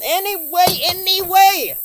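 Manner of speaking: high, loud, sing-song dismissal; exasperated. Real, not acted. Giving up on the story, mock exasperated. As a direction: brush it off with a flourish.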